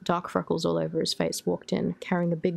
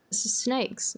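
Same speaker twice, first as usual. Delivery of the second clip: stammering fear; 7 semitones higher, slower than usual. A narrator's reading. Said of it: "Mike stammered".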